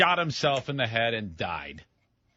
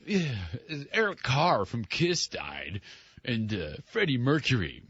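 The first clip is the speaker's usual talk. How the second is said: radio puker voice. Retold or imitated. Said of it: "I was a puker".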